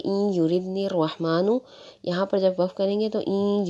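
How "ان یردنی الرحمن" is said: ان یردنی الرحمن with ان joined straight into یردنی; joined reading. Shown as a demonstration. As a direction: join ان یردنی with no break. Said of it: "لفظ کو پورا ہی پڑھیں گے". (ان یردنی کو ملا کر پڑھیں)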